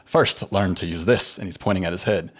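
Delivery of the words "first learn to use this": slow, lightly put-on Scottish accent; a hint of a bad Scottish accent, drawn out; terrible Scottish accent. Uncle Argo teaching the orphaned boy, in a weak Scottish accent. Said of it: "I'm gonna do my terrible Scottish accent".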